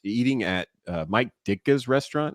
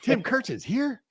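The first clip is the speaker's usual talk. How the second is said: mock disbelief; slower than usual. Teammate's disbelief retold.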